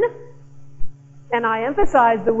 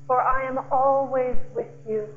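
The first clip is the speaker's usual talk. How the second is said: voice of God; 3 dB quieter than usual. Acted. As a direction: speak like a loving God comforting a child. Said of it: "and it will say".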